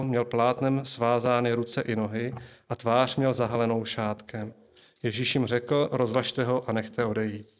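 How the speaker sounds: measured read-aloud of a Bible story; scripture reading. Acted. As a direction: read the gospel passage evenly and deliberately.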